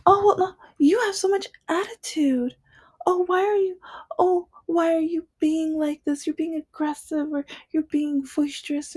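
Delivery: high-pitched mocking impression of a condescending white woman; mock-offended accuser squeaking out stereotypes. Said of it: "they're like".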